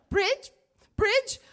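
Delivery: high, loud rising question; hopeful one-word asking. Retold or imitated. Lost rider asking a truck driver the way, high and questioning. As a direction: call it out like to someone with little shared language.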